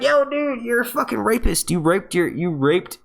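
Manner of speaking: high-pitched, aghast mock outrage; outraged disbelief. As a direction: jump way up in pitch, scandalized. Outraged reaction to villain.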